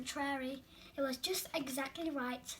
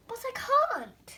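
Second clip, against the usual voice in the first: whispered refusal; 9 semitones higher, 5 dB louder than usual. A narrator's reading. Bird sadly refusing.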